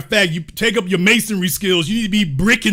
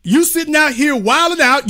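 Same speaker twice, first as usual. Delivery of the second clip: ordinary talk, nothing marked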